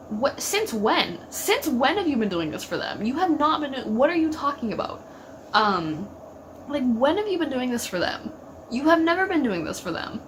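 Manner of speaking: exasperated, rising in disbelief; indignant retort. Retold or imitated. Fan confronting Dean over his sudden excuse, indignant. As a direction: fire the questions back incredulous.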